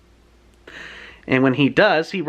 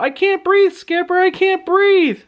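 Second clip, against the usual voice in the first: high, louder gasped panic, slowing on the second; mock panic, can't catch her breath; panicking; 14 semitones higher, 4 dB louder than usual. Libby panics to Skipper in the stuck elevator, high and breathless. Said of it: "Libby starts freaking out".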